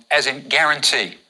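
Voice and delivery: guarantee with a hard G, as in gate. Shown as a demonstration. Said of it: "It's a hard G sound".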